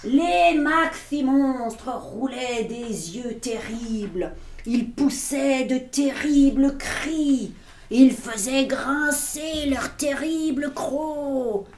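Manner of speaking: slow, weighty storytelling; dramatic narration. A narrator's reading. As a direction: make the monsters sound dreadful, slowly. Lecture dramatique des monstres. (narration lente et dramatique)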